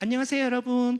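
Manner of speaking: slender, thin, very high-pitched voice. Showing her original voice before she made a new tone: thin tone. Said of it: "라고 하는 가는 톤이에요".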